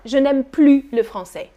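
no final S on PLUS; silent S in PLUS. Shown as a demonstration. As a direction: say PLUS as "plu" before LE FRANÇAIS. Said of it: "I'm not pronouncing the final S".

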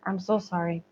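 ordinary talk

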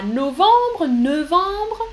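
novembre said slowly, nasal French vowels; modelled French word. Shown as a demonstration. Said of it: "novembre en français". (novembre prononcé à la française)

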